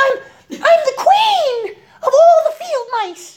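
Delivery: very high, slow, offended, squeaky mouse voice. Telling a story to explain indignant, the insulted little mouse answers in an indignant mouse voice. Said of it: "she begins to talk like that".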